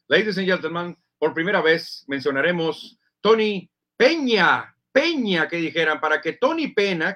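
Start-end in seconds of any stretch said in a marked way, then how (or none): 0.1-5.5 slow, emphatic stadium-announcer tribute; locutor de estádio. Pretend. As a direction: announce the name deliberately, PEÑA ringing out. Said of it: "y que dijeran".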